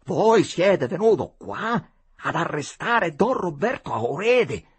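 high, loud, deliberate challenge; apostrofe indignata. A narrator's reading. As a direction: confront the stranger loudly, spacing out the phrases. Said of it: "lo apostrofò". (domanda accusatoria a voce alta e acuta)

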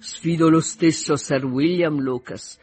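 slow, drawling mock admiration; ironic father. Father mocking his new son-in-law, slow ironic drawl. Voices Mr Bennet.

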